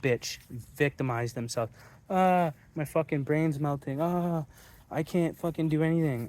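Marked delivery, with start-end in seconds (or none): 2.1-6.3 mocking whiner. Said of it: "They rather cry, bitch".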